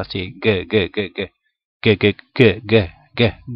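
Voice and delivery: "g" repetida desde el fondo de la garganta; la "g" gutural, una y otra vez; sonido g profundo. Shown as a demonstration. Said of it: "ese sonido como profundo de la garganta". ("g" profunda de garganta)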